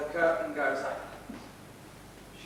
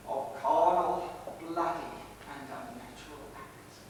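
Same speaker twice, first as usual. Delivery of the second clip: dying whisper; 3 semitones lower, 4 dB quieter than usual. Acted. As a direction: breathe out the last words dying. Dying speech fading.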